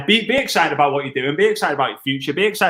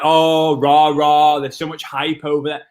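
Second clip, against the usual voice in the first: mock hype; 3 dB louder than usual. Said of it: "a lot of people are like".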